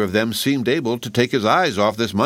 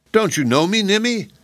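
tin man voice; 12 semitones higher than usual. A narrator's reading. Tin Woodman pleads to sweetheart.

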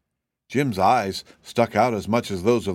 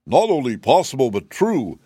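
gratified; 4 semitones higher, 5 dB louder than usual. Acted. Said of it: "gratified by the impression".

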